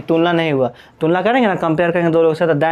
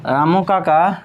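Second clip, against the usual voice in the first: slow word-by-word dictation; much slower than usual. Shown as a demonstration. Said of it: "एक और हम लोग example लेते हैं".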